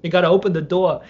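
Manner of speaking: put-on New York accent. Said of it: "he talks like this".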